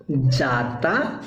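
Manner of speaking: जाता said very slowly and deliberately; slow demo. Shown as a demonstration. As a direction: draw out जाता syllable by syllable. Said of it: "आज जब इसमें ज लग गया है".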